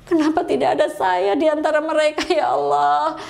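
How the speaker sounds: mild imitation of a weeping prayer; retold tearful lament. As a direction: plead with God as if recalling tears, understated. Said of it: "Umi nangis gini". (ratapan doa, menirukan tangis secara ringan)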